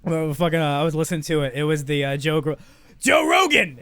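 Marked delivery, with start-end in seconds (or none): 3.0-3.8 excited outburst. Real, not acted. Sudden recall mid-sentence.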